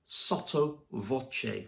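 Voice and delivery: hushed, slow demo of "sotto voce"; in an undertone. Shown as a demonstration. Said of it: "in an undertone or a whisper".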